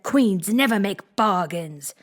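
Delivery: slow, drawn-up and stiff; stiffly. Acted. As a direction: put her firmly in her place. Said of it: "drew herself up rather stiffly".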